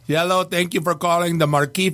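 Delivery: imitated Romanian hotline greeter; Romanian accent. Romanian guy greets callers to the bar's hotline, mock Romanian accent. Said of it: "he's, like, a Romanian guy".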